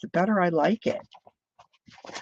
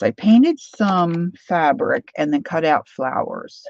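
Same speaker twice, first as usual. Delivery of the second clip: swallowing mid sentence; 6 dB louder, slower than usual. Real, not acted. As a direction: gulp caught between words. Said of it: "did you just hear me gulp".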